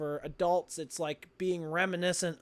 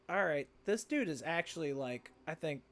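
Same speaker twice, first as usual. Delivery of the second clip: muttered aside; 8 dB quieter than usual. Retold or imitated. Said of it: "I would have been like".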